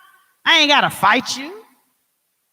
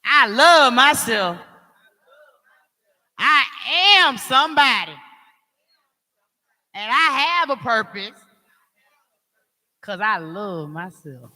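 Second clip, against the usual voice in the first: with attitude. Shown as a demonstration. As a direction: declare each line like you mean it. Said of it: "You gotta get an attitude".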